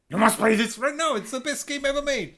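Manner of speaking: high, loud pushy demand; hammed-up menacing friend pushing a game; mock threatening friend. Friend pressuring him to buy the game, hammed-up threatening. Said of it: "it's like".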